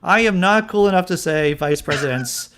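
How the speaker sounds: high, insistent self-mocking protest; worked-up admission. Real, not acted. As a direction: protest your own uncoolness, emphatically. Mock outburst over own mispronouncing.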